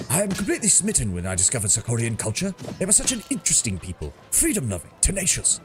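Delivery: lightly pompous British officer; pompous British captain. Acted. Sealkin voiced in character.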